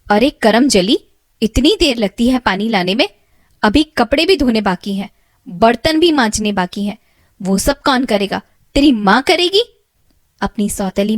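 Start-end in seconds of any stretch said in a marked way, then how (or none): 0.1-9.6 loud nagging stepmother voice; scolding stepmother. Acted. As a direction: scold the girl like a harsh stepmother.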